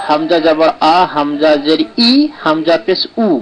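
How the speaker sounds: আ, ই, উ held as pure a, i, u; correct vowel sounds. Shown as a demonstration. Teacher modelling correct pronunciation, pure vowels. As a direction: spell out হামজা with clean আ, ই, উ. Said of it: "সঠিক উচ্চারণটা হবে".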